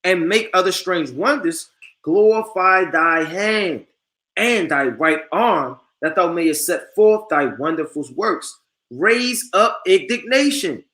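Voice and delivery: slow, solemn reread of the verse; slow solemn scripture reading; reading again. Acted. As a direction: lean on each phrase, slowly.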